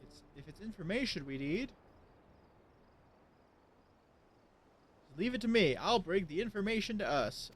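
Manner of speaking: character voice reading dialogue. Acted. Reads NPC dialogue aloud.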